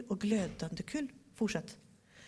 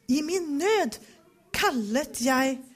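a touch louder cry of distress; 3 semitones higher, 4 dB louder than usual. Shown as a demonstration. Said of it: "lite mer dramatiskt".

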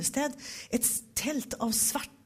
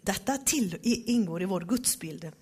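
usual speaking voice

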